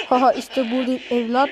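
villain taunt voice. Pretend. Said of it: "Evlat sesini şöyle".

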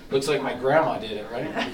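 chuckling through the words; laughing. Real, not acted. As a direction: laugh while teasing yourself. Joking about his messy signature.

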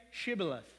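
"Shibboleth" with a clear SH at the start; careful SH in "Shibboleth"; sh pronunciation. Acted. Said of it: "the person would pronounce it".

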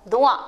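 "doigt" said as one syllable, dwa; syllable demo. Shown as a demonstration. Teacher answers how D with wa sounds, "doigt" as one clear dwa. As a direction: blend D and wa into "doigt". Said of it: "Il se prononce".

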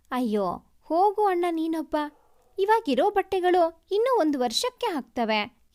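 a playful pretend huff; mock sulk. Sister playfully scolds her brother, in a mild mock sulk. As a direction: tease him with a fake pout. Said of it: "ಹುಸಿ ಮುನಿಸಿನಲ್ಲಿ".

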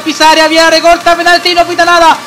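brisk football commentator voice; live play-by-play. Acted. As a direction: call the match as it happens. (narración de partido en directo)

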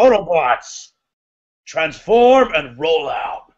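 lightly voiced slow Optimus Prime command; a hint of a heroic robot leader, slow; Peter Cullen impression. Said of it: "can you do a Peter Cullen impression".

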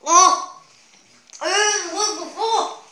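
loud laughing outburst; laughing reaction. Real, not acted. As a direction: blurt it out laughing. Sour juice reaction.

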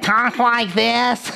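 lightly put-on annoying talker; irritating voice. Shown as a demonstration. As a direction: demonstrate a grating way of talking. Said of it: "Isn't that the most irritating voice?".

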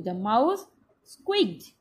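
slow, deliberate dictation, squeaked stressed. Shown as a demonstration. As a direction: spell it out slowly for the class. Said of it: "What did the mouse do?".

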